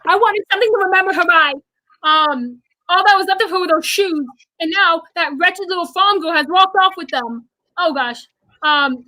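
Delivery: lightly voiced Elphaba monologue; acting out Elphaba. Reciting Elphaba's lines to a friend, lightly acted. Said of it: "I'm gonna try to do this".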